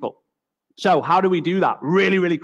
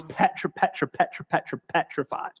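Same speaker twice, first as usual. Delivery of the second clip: mock stammer of fear; 7 dB quieter than usual. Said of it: "No joke".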